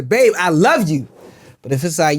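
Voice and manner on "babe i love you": longing I love you. Shown as a demonstration. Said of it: "if you really, really miss her".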